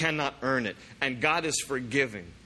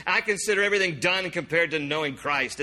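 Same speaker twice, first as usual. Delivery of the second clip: lightly mock-refined, higher pitched quote; mock sophisticated; 5 semitones higher, 3 dB louder than usual. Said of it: "It's a very sophisticated".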